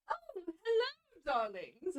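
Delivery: sultry, drawn-out greeting; femme fatale. Acted. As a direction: purr it like a seductress.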